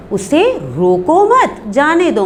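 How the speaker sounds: group मत with रोको, then let जाने दो follow; pause after मत. Shown as a demonstration. Teacher contrasting the two meanings, pause after मत. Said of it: "मतलब रोको नहीं".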